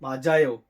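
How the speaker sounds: माजायो said clearly, stress on जा; crisp model माजायो; careful pronunciation. Shown as a demonstration. Teacher modelling the changed word माजायो. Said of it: "ये बन जाएगा".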